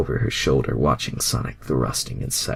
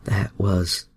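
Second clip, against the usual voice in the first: slow, satisfied sigh; lightly voiced contented sigh; sighing Rogue; 3 semitones higher, 3 dB louder, slower than usual. A narrator's reading. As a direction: drawl it out contented. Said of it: "Rogue gasped out, sighing in happiness".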